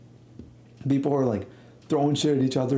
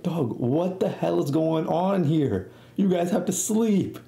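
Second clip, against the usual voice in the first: slow, higher-pitched mock reprimand; exasperated scolding imitation; 5 semitones higher, slower than usual. Camp supervisor catching kids up at night, mock scolding. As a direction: stretch it out in put-on disbelief. Acting the staff member catching them.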